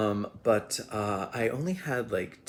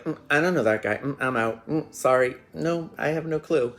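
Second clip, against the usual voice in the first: mock disowning, louder and higher; Rob; 6 semitones higher, 7 dB louder than usual. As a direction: imitate someone hurriedly denying any connection. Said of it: "he disowns me".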